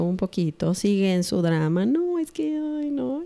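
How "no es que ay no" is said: put-on high, whining teen protest; pitched-up mock of a sulking girl; whiny daughter. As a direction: whine it like an upset daughter. Daughter voiced whining in drama.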